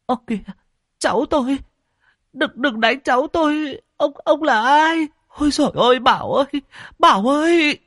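put-on high, pleading old woman's voice; stammering plea. Grandmother begging the stranger to spare her grandson, high and pleading. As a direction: beg the stranger to stop beating her grandson. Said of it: "lắp bắp van xin".

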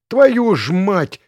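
high, loud, drawn-out swearing; curse aloud. A narrator's reading. Passenger behind sees the dead pilot, cursing aloud. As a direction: cry out the curse slowly and loudly. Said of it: "будто мой спутник повторил вслух".

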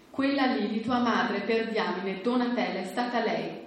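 put-on a touch of drunken bitterness; bitter blame. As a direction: spit out the mother's name. Father blaming the mother.

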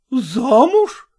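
high, loud startled question; surprised. A narrator's reading. Zoya hearing Nastya will marry, surprised. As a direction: gasp it out in disbelief. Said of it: "быстро и удивлённо спросила".

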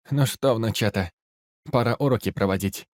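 tough granny, loud and grim; a fierce old soldier granny; old woman voice. A narrator's reading. Бабка Нюра перед боем. (бойкая бабка)

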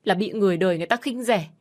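wife pushing her husband away, shouting. Acted. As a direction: finally snap and shout back. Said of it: "Tôi đã hét lên".

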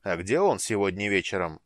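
«он» hit loud and pointed; stress on он. Acted. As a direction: lean hard on «он» as a test. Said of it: "особое ударение на слове «он»". (с нажимом на слове «он»)

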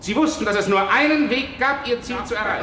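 frantic accusation. Acted. Judge hounds Beverley in a fever dream, frantic. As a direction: pile on the accusation in a frenzy.

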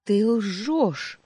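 high, loud desperate cry; shouting. Acted. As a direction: scream the denial. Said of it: "закричала Эссантия".

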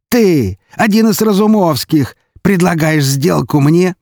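high-pitched, incredulous questioning; can't believe who is offering a deal; astonished. A narrator's reading. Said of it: "По его лицу скользнуло удивление". (изумлённо, высоким голосом)

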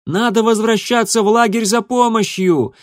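high urgent shout. A narrator's reading. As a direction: yell it to be heard. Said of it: "крикнула кошка".

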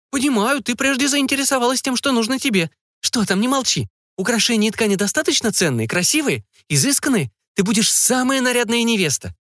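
prying mother digging for details, pitched high. A narrator's reading. Mother questioning her daughter about the groom, high curious voice.

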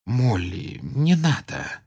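soft, slow, gentle plea; calm her quietly; restrained comfort. Acted. Lupin quieting the sobbing Molly, soft and gentle. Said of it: "сдержанно сказал".

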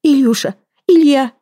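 crying out. A narrator's reading. Woman rushing to her lover, crying his name out loud. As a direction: shout his name as you rush to him. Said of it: "и закричала".

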